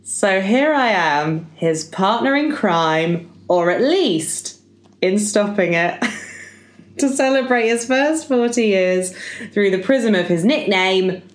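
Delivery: measured birthday speech delivery with pauses; speech reading. Acted. Podcaster reading out a tribute to Roger, measured speech delivery. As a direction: set up each phrase for the room.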